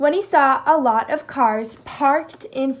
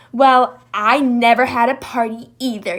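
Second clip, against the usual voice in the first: louder angry yell; 7 dB louder than usual. Acted. Jackal yelling at Moose, loud. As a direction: shout back at Moose. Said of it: "yelled Jackal".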